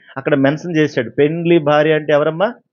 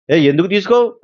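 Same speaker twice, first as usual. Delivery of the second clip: higher, whining demand; the people complaining to God, higher and whiny; whiny complaint; 5 semitones higher than usual. Retold or imitated. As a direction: sulk at God like a spoiled child. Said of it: "అంటారంట వాళ్ళు".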